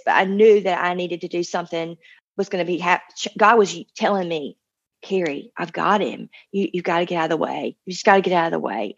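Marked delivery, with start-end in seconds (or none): 5.0-8.9 sweet gentle voice. Retold or imitated. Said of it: "In the sweetest voice".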